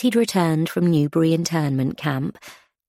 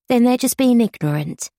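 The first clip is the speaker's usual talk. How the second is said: indignant; 6 semitones higher, 3 dB louder than usual. A narrator's reading. Alice defends Gunther indignantly.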